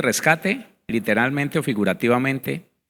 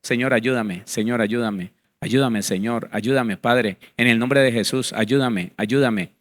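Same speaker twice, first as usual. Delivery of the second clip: mindless prayer; 4 semitones lower than usual. Retold or imitated. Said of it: "no está plenamente consciente".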